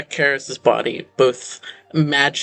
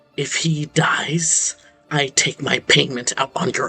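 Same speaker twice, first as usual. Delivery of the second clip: husky, smooth stage whisper, hissed. Narrator voicing a remembered voice in your ear over a body, husky, smooth half-whisper. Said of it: "Some husky, smooth voice uh, that whispers".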